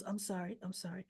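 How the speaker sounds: softly retold, backing-off apology; quiet apology. Danny walking in on the two, apologizing quietly.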